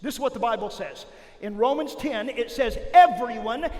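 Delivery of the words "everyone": called out. Shown as a demonstration. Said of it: "everybody say".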